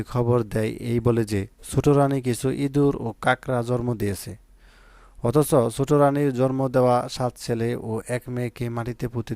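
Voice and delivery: slow, careful prose reading in standard Bengali; deliberate story passage read aloud; standard-pronunciation reading. Shown as a demonstration. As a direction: read the tale out slowly and evenly. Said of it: "প্রমিত উচ্চারণ বাছাইকৃত গদ্যাংশের".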